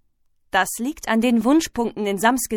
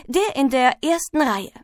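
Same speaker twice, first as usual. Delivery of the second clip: higher-pitched, dutiful schoolboy; eager top pupil; 4 semitones higher than usual. Acted. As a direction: finish the report to the teacher. Top pupil finishes his report.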